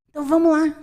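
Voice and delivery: rally them like a coach; rallying call. Acted. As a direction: bold encouraging push. Speaker voicing God's encouragement.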